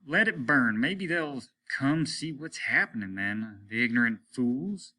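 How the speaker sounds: lightly voiced irritated captain; gruff captain. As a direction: sneer at the absent locals. Captain's voice in story.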